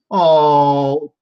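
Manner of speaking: high, loud mock wail; mock dismay. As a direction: cry out as a hammed-up burnt victim. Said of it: "moves happening where it's just like".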